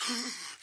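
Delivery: sharp high gasp; quick intake of breath, mimicking astonishment; mock gasp. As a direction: gasp as if amazed. Imitating amazed reaction, years ago.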